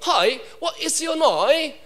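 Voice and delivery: light mock British accent; British English speaker. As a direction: put on a British greeting. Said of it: "영국에서 왔으니까 영국 사람은".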